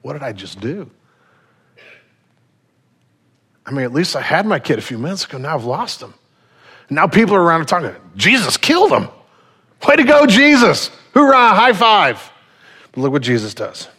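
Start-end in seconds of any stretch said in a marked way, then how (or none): 0.0-6.1 hushed, stunned lament over his lost son; grieving father. Retold or imitated. Father standing over his son, softly stunned. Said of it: "this man standing over his son going". 8.2-12.3 higher, louder mock cheer; sarcastic crowd. Onlookers jeering at Jesus over the boy, mock-cheering. Mocking onlookers after boy's death.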